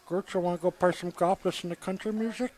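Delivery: giggly sneering imp. Acted. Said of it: "Stop doing the Bobby voice".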